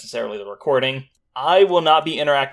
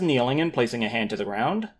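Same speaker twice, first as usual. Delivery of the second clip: story narration. A narrator's reading. GM continues scene narration.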